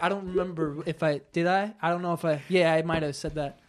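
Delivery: low, soft evasive mumbling; sheepish denial. Retold or imitated. Imitating a caught guy answering the transcript questions, sheepish and quiet. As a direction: imitate a cornered man hedging, quietly.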